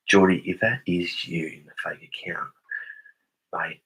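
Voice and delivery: whispered aside. Real, not acted. Whispered to camera.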